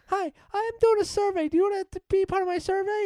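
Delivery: put-on high kid voice with a Delco accent; young boy doing a survey, Delco accent. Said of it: "my Delco accent".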